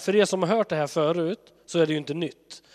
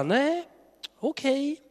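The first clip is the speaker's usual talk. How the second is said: much higher, giving in; resigned God; 11 semitones higher, much slower than usual. Pretend. God backing down to the people, much higher and resigned. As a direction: give in with a shrug.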